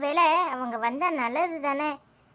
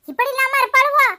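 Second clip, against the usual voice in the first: indignant outburst; 8 semitones higher, 8 dB louder than usual. Acted. Indignant exclamation.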